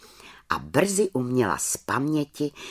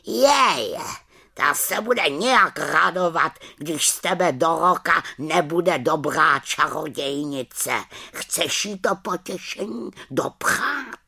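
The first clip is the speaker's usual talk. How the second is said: raven warning; 6 semitones higher than usual. Acted. Raven warns witch.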